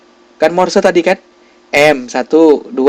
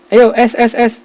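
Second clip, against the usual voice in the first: coaxing call; 8 semitones higher than usual. Real, not acted. Prompting the silent class for an answer.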